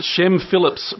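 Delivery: hammed-up South African accent. Shown as a demonstration. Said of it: "now that's South African".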